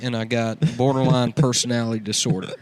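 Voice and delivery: lightly voiced redneck art hoe; redneck character. Cletus introducing his podcast, lightly redneck voiced. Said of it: "That's a good character, dude".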